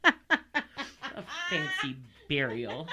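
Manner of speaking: slow, breathless laughing repeat. Real, not acted. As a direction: laugh out the words. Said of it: "repeats laughing".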